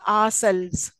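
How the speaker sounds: "ourselves" with the accent on SELVES; stress on second element. Shown as a demonstration. Teacher showing an accented second element, stress on SELVES. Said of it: "selves is accented".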